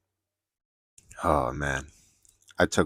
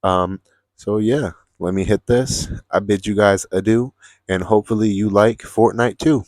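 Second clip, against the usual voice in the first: higher, louder, rising playful goodbye; cheerful sign-off; 4 semitones higher, 6 dB louder than usual. Real, not acted. To viewers, asking them to share, a cheerful sign-off. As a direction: wave the audience off with energy. Signing off the video.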